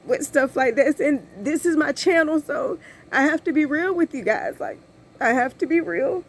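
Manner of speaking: trying not to cry on camera; holding back tears. Real, not acted. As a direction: voice tight and high, fighting tears. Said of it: "I'm trying not to cry".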